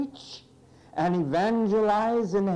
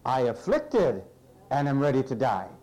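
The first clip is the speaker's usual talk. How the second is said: deliberate, lower reading, breaking after "afflicted"; reworded verse reading; 5 semitones lower than usual. Shown as a demonstration. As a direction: set "I afflicted" apart before "and am ready to die". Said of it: "let's read it this way".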